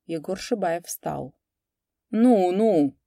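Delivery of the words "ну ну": threatening. A narrator's reading. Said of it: "угрожающе проговорил он".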